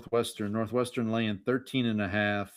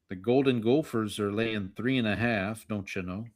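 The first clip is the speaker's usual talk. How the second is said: put-on Minnesota accent. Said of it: "my apologies for my poor Minnesota accent".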